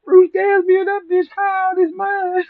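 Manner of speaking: high squeaky voice through laughter; laughing hard. Real, not acted. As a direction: crack up while you say it. Cracking up mocking host.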